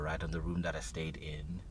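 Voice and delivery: hushed unvoiced telling; whisper. Real, not acted. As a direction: lean in and whisper the detail. Telling eerie dream.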